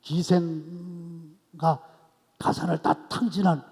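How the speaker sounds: the wronged son demanding his due; defiant complaint. Acted. The elder son defying his father, loud and resentful. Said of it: "막 대드는 거".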